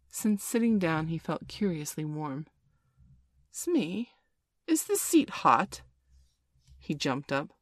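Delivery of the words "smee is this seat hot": higher, rising alarmed question; suddenly notice the heat. A narrator's reading. Hook feels seat burning.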